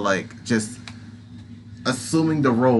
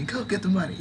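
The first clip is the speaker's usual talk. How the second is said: higher spider voice, dissolving into giggles; laughing through it; 9 semitones higher, 5 dB quieter, faster than usual. Acted. Spider landlady cheering the player on, giggling. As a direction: repeat it and crack up.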